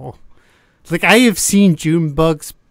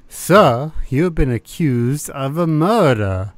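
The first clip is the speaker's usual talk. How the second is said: imitating a terrible Southern accent. Podcast host quoting Michael's bad Southern accent, lightly done. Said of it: "in his terrible Southern accent".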